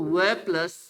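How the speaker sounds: slow, sound by sound, छोटा ई plus ल; teacher spelling out sounds one by one. Shown as a demonstration. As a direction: break the word into sounds slowly. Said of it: "तो विलेज को यदि मैं तोड़ूं".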